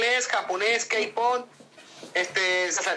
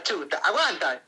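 drawn out slowly; 4 semitones lower, slower than usual. Shown as a demonstration. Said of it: "Chuta, oye".

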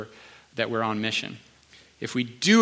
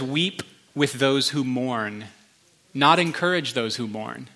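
slow scripture reading; slower than usual. Shown as a demonstration. Reading the verse aloud.

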